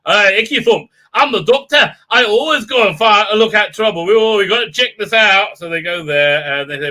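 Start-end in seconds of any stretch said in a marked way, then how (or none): 0.1-5.6 hammed-up excited Doctor, louder; imitating the Doctor blundering into trouble; mock Doctor. Reviewer mocking the Doctor, hammed-up eager voice. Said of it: "and she's like".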